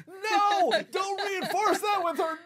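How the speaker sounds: high, drawn-out wail; mock-horrified listeners crying out; imagined listeners protesting. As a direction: shout a high, hammed-up protest. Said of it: "all your laners are going".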